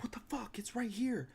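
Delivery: baffled whisper; whispering while hunting for the phone. Retold or imitated. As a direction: hiss it under your breath, confused. Searching mall for phone, baffled.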